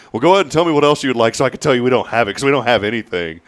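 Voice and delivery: fast, sarcastic brush-off; sarcastic clerk. Retold or imitated. Dave telling the customer they have nothing, fast and sarcastic. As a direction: rattle it off with mock impatience. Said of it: "he told her".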